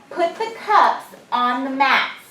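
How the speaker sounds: slow, loud dictation phrasing; dictation repeat. Shown as a demonstration. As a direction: repeat it slowly and clearly for the class. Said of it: "Listen to it again".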